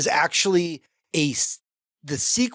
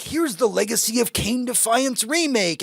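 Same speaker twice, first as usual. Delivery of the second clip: higher-pitched mock announcer hype; hyped announcement; 8 semitones higher than usual. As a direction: imitate an excited game reveal. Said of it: "they were like".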